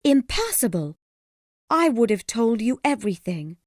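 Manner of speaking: high, loud exclamation; crying out. A narrator's reading. Woman protests to Gilbert, crying out high. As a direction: cry it out in a high voice. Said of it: "she cried".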